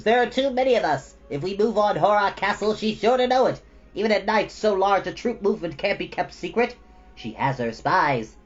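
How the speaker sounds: a lightly voiced little prince; gnome prince. A narrator's reading. Prince of the Gnomes agrees with Bastian, lightly high voice.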